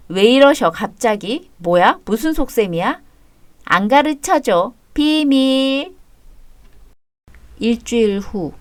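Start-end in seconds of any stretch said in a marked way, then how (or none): 3.7-5.9 teasing. Acted. Teasing sister keeps a secret.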